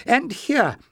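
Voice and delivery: lightly voiced eager old man; old librarian Joseph. Old librarian offers paper, lightly voiced.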